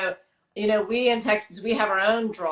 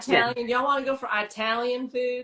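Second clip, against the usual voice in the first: put-on southern accent; 3 semitones higher than usual. Friend from the Carolinas asks about Italian food, light Southern accent. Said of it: "she gives that southern accent".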